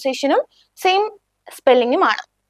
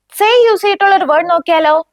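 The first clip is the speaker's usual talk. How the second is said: whisper; 5 semitones higher, 4 dB louder than usual. Real, not acted. Teacher whispers a question.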